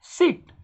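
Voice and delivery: सिट with a held "ee", as in seat; long vowel. Shown as a demonstration. Teacher shows the long way, सिट with long "ee". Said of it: "थोड़ी long way में बोलते हैं".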